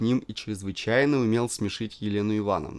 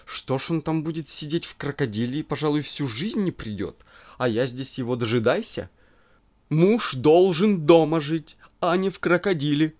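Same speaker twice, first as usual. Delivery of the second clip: lightly voiced petulant wife; 5 semitones higher, 5 dB louder than usual. Elena complains, pouting.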